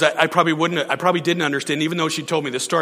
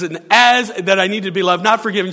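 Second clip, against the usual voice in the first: higher, louder mock indignation through laughter; indignant retelling; 4 semitones higher, 5 dB louder than usual. Pastor quoting the woman's prayer against him, higher amused indignation. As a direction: play her righteous complaint, half laughing. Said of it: "she says".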